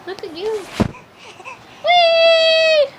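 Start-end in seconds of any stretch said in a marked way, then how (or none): 1.8-2.9 high excited whee; playful excited squeal. Acted. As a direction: play airplane with the baby. Playing airplane with baby.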